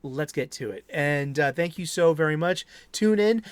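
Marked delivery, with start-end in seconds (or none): 2.9-3.4 loud, high, dramatic outro call, slowing on the last words; spooky sign-off. Real, not acted. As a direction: ham up the horror-host farewell.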